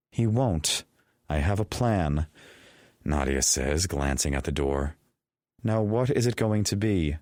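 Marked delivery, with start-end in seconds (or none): 0.1-2.3 higher, confident woman's voice; light female voice. A narrator's reading. Nadia voiced. 5.6-7.2 higher, demanding woman's voice; pressing female voice. A narrator's reading. Nadia presses them.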